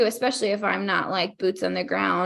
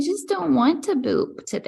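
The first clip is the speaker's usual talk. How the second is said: higher, mock-whiny sulky voice; whiny worker; 7 semitones higher than usual. Playing a lazy employee refusing to boop, mock whine. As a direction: sulk like a worker who won't bother.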